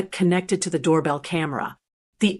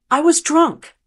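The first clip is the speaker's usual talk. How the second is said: high tearful sob; sobbing; 7 semitones higher, 3 dB louder than usual. A narrator's reading. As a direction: sob out the excuse. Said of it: "Karen sobbed".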